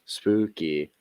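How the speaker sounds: spooky drawn-out ghost voice; a hint of a haunting ghost; scary ghost voice. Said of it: "It's kinda scary ghost voice".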